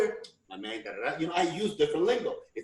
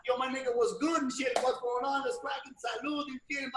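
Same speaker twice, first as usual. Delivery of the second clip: higher, quick mock rapper greeting; rapper lingo; 4 semitones higher, 5 dB quieter than usual. Fitting in with rappers, lightly imitated greeting. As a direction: lightly put on rapper slang. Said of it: "that rapper and all those rappers".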